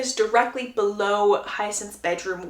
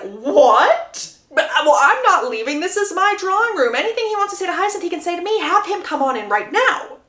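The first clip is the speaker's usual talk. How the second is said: higher, emphatic indignant protest; indignant grandmother; 6 semitones higher, 3 dB louder than usual. Acted. Lady Danbury refuses to leave her drawing room, indignant. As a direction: act out an affronted refusal to leave.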